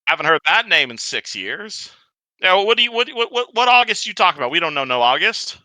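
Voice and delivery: high, flustered goblin; confused goblin. Acted. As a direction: sputter it in confusion. Goblin confused about August.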